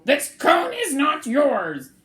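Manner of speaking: slow, loud, high protest; angry protest. Acted. Cyril protesting to Bruce over the cone. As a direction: insist hard.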